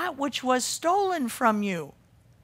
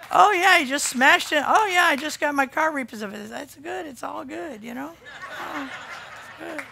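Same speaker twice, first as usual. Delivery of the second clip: mocking a breezy all-is-fine chirp; perky mock cheer; 3 semitones higher than usual. Preacher mocking perky churchgoers, breezy fake cheer. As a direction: play the perky person brushing off bad news. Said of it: "perky little people running around and saying".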